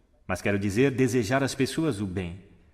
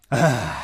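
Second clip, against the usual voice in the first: exhaled sigh; 3 dB louder than usual. Shown as a demonstration. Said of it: "Mais uma vez".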